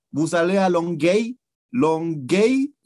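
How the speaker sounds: put-on French question in a heavy Spanish accent, slow; exaggerated Spanish-accented French; strong Spanish accent. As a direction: ask in French with a thick Spanish accent, "Longueuil" drawn out. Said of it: "con mi súper acento español".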